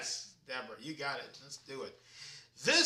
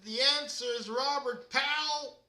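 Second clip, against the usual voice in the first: higher and louder, celebrating; excited announcement; 7 semitones higher, 5 dB louder than usual. Real, not acted. Quiz host telling players they won, loud and celebratory. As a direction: cheer the winners like a game show host.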